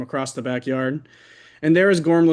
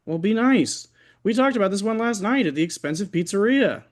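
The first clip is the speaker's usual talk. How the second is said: defensive whine; 6 semitones higher than usual. Acted. Defensive husband to girlfriend.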